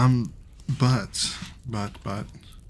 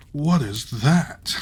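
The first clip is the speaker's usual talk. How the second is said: a slow, louder amazed "What is that"; slow surprised cry; 5 semitones higher, 7 dB louder, much slower than usual. A narrator's reading. Tailor marvels at the distant tower, slow surprised cry. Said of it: "cried the tailor".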